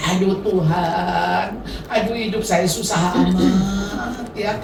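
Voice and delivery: mild mock whine of a self-pitying grandmother; self-pitying complaint. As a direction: lightly grumble like someone feeling sorry for herself. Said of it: "lagi mengasihani diri".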